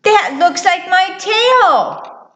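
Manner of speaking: high, slow mouse voice; amused little mouse. Acted. Mouse reacts to the line.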